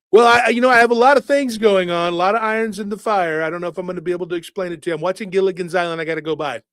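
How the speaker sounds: loud, then rushing Trump voice; Trump impression. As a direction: start loud, then gabble off fast. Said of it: "Trump's reply on the phone".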